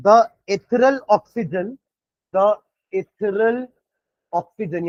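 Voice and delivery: slow, word by word for notes; dictating at writing pace; slow dictation. Shown as a demonstration. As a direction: spell it out for students to write down.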